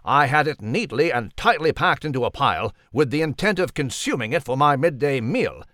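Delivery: posh mouse and French cat voices; lightly voiced animal banter; mixed character voices. Mouse and cat trade lines.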